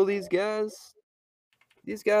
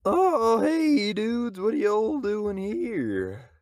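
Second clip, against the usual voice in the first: laid-back hippie, slow; hippie drifter; 2 semitones higher, 3 dB louder, slower than usual. Acted. Homeless hippie greeting the travellers in a laid-back drawl.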